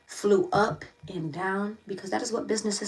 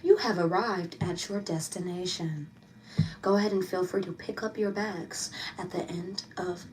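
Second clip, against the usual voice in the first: intercom announcement; 2 semitones lower, 4 dB quieter than usual. Pretend. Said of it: "I'm speaking as if I'm on the intercom".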